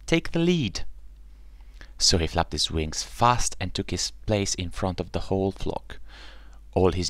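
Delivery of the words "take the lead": swan voice. Acted. Swan calls to him.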